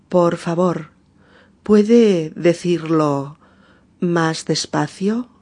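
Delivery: slowed right down, each word spelled out for learners; deliberately slow teacher demo; slow, clear model phrase. Shown as a demonstration. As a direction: say it slowly like a patient teacher. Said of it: "O también podemos decir".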